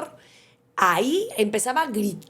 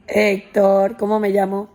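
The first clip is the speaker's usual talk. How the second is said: loud, re-enacted question to a small son; raised voice, prompting a child; calling to her child; 8 dB louder than usual. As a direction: call out clearly, coaxing an answer. Mother re-enacts asking her son.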